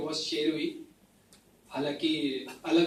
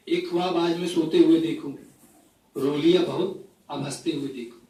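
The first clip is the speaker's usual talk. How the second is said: phrase-by-phrase mushaira delivery; poetry recitation; 4 dB louder than usual. Acted. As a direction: recite each couplet to the audience with pauses. Recites own poem to audience. (मुशायरे के अंदाज़ में कविता पाठ)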